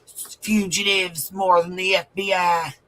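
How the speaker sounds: mocking quote. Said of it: "he's like".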